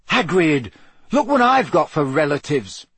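put-on a touch of boyish fury; Harry protesting, understated anger; furious. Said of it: "Harry said furiously".

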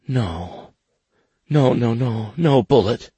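high pleading woman's denial; desperate denial. Acted. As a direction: plead against his words. She denies it desperately.

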